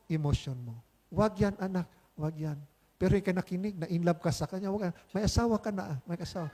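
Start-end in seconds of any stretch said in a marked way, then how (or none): 1.1-2.6 gentle warning. Retold or imitated. 4.7-6.5 soft warning. Retold or imitated. Lord warning a married lover.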